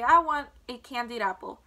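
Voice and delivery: put-on loud, insistent boy's demand. A narrator's reading. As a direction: demand the treat at full voice. Boy loudly demands a treat.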